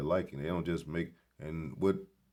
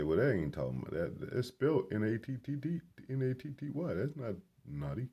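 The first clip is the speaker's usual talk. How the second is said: mock know-it-all; 7 semitones higher than usual. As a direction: spell the letters out higher, in a put-on pedantic voice. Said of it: "And then somebody might say".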